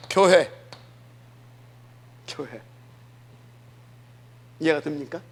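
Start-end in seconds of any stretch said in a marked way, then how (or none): 0.1-0.5 loud declaration. Acted. Preacher stressing 교회 to his church, loud. Preacher repeats word contrastingly. 2.3-2.6 quiet echo. Acted. Preacher echoing 교회 to his church, soft and low. Preacher repeats word contrastingly.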